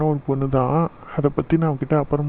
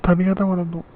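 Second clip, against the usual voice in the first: tearful; 4 dB quieter than usual. Acted. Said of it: "அதுக்கு எதுக்கு அழற".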